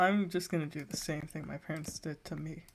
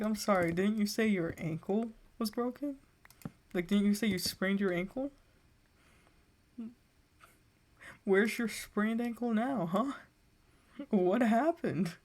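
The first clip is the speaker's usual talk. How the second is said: sarcastic confrontation; 3 semitones higher than usual. Retold or imitated. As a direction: needle him about his "broken" ankle. Mocking the cousin's fake injury.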